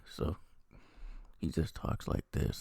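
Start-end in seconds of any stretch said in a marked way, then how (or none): 1.4-2.6 slow, mildly mocking boring voice; boring delivery. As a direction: imitate a dull talker, drawn out. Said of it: "and he's very boring".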